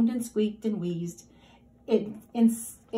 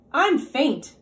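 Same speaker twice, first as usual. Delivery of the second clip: squealing pig; 4 semitones higher, 5 dB louder than usual. A narrator's reading. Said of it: "squealed Roly Pig".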